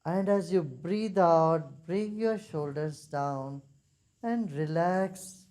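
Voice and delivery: slow, drawn-out relaxation cue; guided meditation. Real, not acted. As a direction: lead them into letting go, word by word. Leads a meditation.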